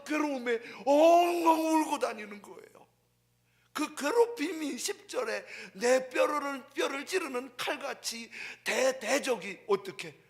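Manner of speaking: loud, slow pulpit cry; impassioned shout. Acted. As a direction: preach it out at full force. Preacher building on David's torment.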